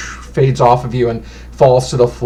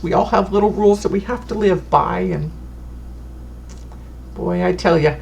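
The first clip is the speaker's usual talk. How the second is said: put-on higher, humble, chatty old lady; a sweet granny introducing herself; doting old woman, softer at times; fussy old fortune teller; 5 semitones higher, 3 dB quieter than usual. Fortune teller explains rules.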